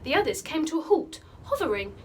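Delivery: put-on animated, dramatic children's storytelling; lively read-aloud, leaning into the action words; story narration. A narrator's reading. Teacher reading an adventure chapter aloud to pupils, animated storytelling.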